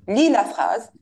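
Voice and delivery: plain firm command; firm order. Shown as a demonstration. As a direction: tell them flatly to read. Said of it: "de trois tons différents". (ordre ferme)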